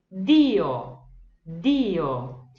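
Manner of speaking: Dio with a hard d, not jee-o; Italian di. Shown as a demonstration. Teacher models Dio. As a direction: say Dio with a clean d. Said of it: "olha lá um exemplo".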